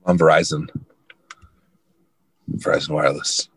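robotic echo with reverb; choppy, echoing call audio; ghost robot voice. Real, not acted. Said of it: "There's robot, there's echo, there's reverb".

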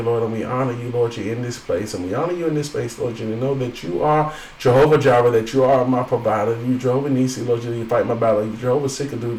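steady, running pastoral prayer. Real, not acted. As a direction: pray straight through in an even, subdued tone. Leads the opening prayer.

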